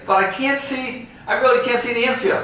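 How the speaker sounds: high, fast whiny plea; pleading fan. Retold or imitated. Fan tells the ambassador he can't see, high fast plea. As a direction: beg like you truly can't see.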